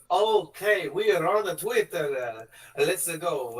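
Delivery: rally the crew with camp bravado; mock villain. Villain rallying her gang, hammed-up bravado. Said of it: "And she goes".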